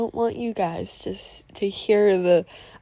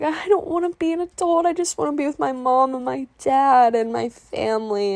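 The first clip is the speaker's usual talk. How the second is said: high, pleading whine; half-acted emotional protest; upset whine; 6 semitones higher than usual. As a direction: whine it like a kid refusing to grow up. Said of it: "it still gets to me".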